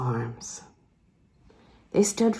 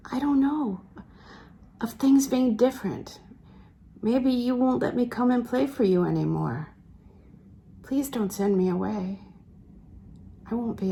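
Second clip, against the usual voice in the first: put-on higher, timid young woman's voice; Lucy's voice; 4 semitones higher than usual. Lucy pleading with Sebastian not to send her away, higher and timid. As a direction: lift the pitch and sound unsure, a girl afraid of losing him.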